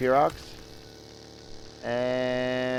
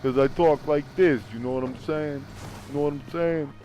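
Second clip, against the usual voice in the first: telephone voice. Shown as a demonstration. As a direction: talk like on a polite phone call. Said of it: "This is my telephone voice".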